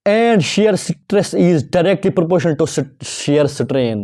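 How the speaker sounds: slow dictation. Shown as a demonstration. Dictating definition slowly.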